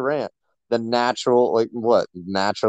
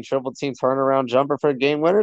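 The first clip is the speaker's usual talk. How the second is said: getting carried away with excitement; hyped-up sports fan making the case; worked up; 4 semitones higher than usual. Real, not acted. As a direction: build excitedly to a higher pitch. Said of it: "All right, relax".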